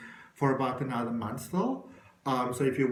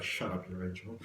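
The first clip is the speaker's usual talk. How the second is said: devil's retort; 7 semitones lower, 10 dB quieter than usual. Retold or imitated. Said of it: "the devil goes like".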